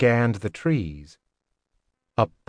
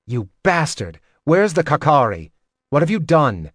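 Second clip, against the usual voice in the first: mildly heated accusation, pushed higher; angry demand; 4 semitones higher, 3 dB louder than usual. Acted. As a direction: demand answers with a touch of anger. Startled pupil accuses laughing master.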